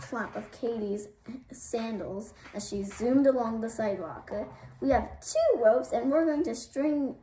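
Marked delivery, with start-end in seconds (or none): 4.8-7.2 higher, louder threat; yelling. A narrator's reading. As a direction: yell the threat gleefully. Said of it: "she yelled".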